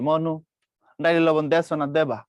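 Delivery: a demo line in Barishal accent; lightly done Barishal dialect. Shown as a demonstration. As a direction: speak it like a Barishal local. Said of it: "এটা বরিশালের ল্যাঙ্গুয়েজের accent".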